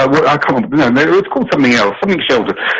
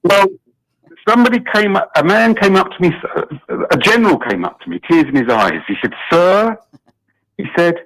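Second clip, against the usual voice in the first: half-hearted presidential impersonation; Donald Trump; 2 semitones higher than usual. Acted. British caller attempts an impression on radio, lightly voiced Trump. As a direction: lightly attempt a boastful president telling an anecdote. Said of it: "can we hear a Donald Trump impersonation".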